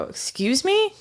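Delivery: high, rising disbelief at the server; sharp affronted question; indignant excuse me. Retold or imitated. A server snapping back at a rude coworker, indignant.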